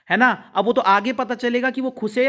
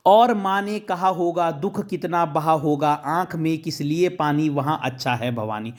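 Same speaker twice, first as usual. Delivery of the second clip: poem recitation; 3 semitones lower than usual. Shown as a demonstration. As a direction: recite each line with care, letting it sink. Teacher recites poem stanza.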